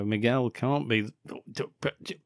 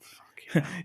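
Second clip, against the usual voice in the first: mock crying; 8 semitones higher, 3 dB quieter than usual. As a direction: fake sob, high. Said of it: "I thought".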